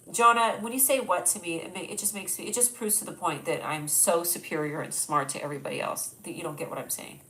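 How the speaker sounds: playfully smug, lowering into a self-satisfied put-down; mock superiority. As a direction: act haughty as a tease, then drop it. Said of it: "Totally kidding".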